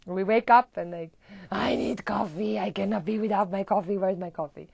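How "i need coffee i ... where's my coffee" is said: mock coffee craving. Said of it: "It's a pattern for many".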